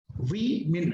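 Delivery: "वीमेन" as wee-min, syllables set apart; plural pronunciation. Shown as a demonstration. Teacher confirms the plural sound, plural pronunciation. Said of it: "ये इसका उच्चारण है".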